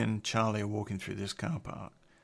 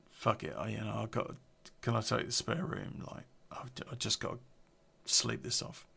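softer, half-whispered and tired; retold whisper; 6 dB quieter than usual. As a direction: murmur it like he just wants to sleep. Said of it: "he just said".

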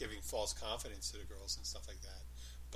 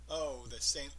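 sarcastic; slower than usual. Shown as a demonstration. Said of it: "you could mean sarcastically".

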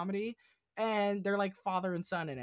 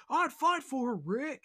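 higher and louder, a mock-intense Shane from Walking Dead; imitating Shane; 10 semitones higher, 7 dB louder than usual. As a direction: mimic Shane pleading his case to Rick, pitched up and loud. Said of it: "he's like".

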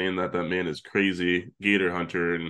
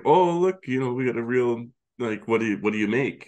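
mock excited; 4 semitones higher than usual. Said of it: "Jim's like".

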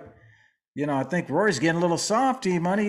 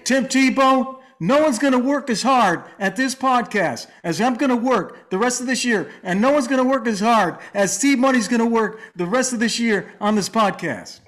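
lightly voiced Tim Tebow, fired up; a hint of Tebow's earnest pep talk; Tim Tebow impression; 4 semitones higher than usual. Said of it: "that was an amazing impression there".

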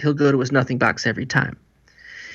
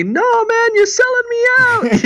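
much higher mock voice of a betrayed guy; mock complaint; 4 dB louder, slower than usual. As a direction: whine it up high like he's been sold out. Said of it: "he's just telling me".

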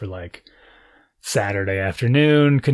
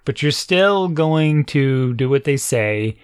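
slow, deliberate insistence; firm parent; much slower than usual. Retold or imitated. Parent tells kids to obey the teacher, measured firmness. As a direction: stretch it out like a parent setting a rule.

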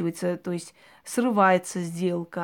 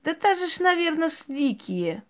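put-on very high Ukrainian-accented mother; Ukrainian village mother; 8 semitones higher than usual. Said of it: "Мать говорит". (мать с украинским говором, очень высоко)

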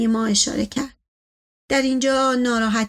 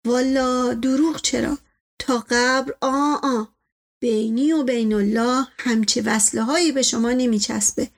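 loyal servant. Acted. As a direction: reassure the master with humble flattery. Servant figure flatters his master. (نوکری وفادار با لحن کشیده)

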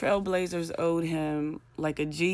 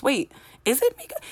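confused double take; 10 semitones higher, 4 dB louder than usual. Retold or imitated. Confused watching halftime show.

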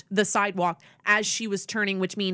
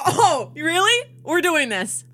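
drawn-out, high, taunting disbelief; slow, raised incredulous retort; mock-incredulous challenge; 8 semitones higher, slower than usual. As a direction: square up for a fight, slowly. Retold squaring up to driver.

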